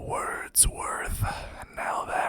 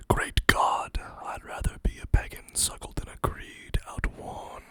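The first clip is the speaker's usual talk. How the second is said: whispered poem reading. Acted. Reads second Wordsworth poem.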